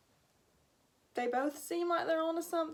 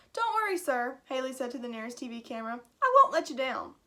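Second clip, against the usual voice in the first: eager promise; 4 dB louder than usual. Acted. Haley speaks to camera.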